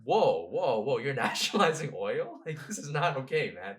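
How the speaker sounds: lightly hammed-up shocked American officials; mock alarmed Americans. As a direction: play the startled Americans, a little loud. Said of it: "the Americans were like".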